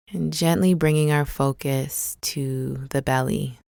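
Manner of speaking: calm, unhurried meditation guide with long pauses; guided meditation. Acted. Guide leading listeners through a body scan, calm guided meditation. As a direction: ease them gently into the body, leaving space between phrases.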